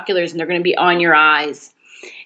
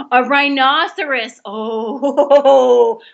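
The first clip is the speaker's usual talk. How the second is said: mock alarm; 3 semitones higher, 3 dB louder, much slower than usual.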